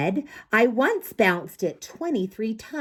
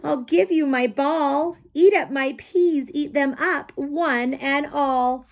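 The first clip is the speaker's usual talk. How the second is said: put-on resigned kid; 8 semitones higher than usual. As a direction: hand over the ball, high and childlike. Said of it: "I said finally".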